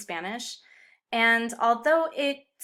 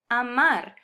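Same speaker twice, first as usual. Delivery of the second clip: a-MAR, weight on the last syllable; stress on final syllable; 3 semitones higher, 5 dB louder than usual. Shown as a demonstration. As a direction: lean on the "mar" of "amar". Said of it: "stress the final syllable".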